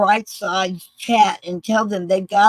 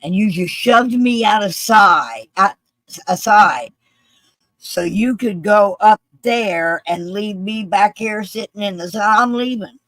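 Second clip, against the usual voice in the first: indignant, with loud bursts; angry retold complaint; 3 semitones higher, 4 dB louder than usual. Veteran shoved aside in the sun, indignant and angry. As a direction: accuse them, imitating an aggrieved man. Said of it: "He's very loud. He's very angry".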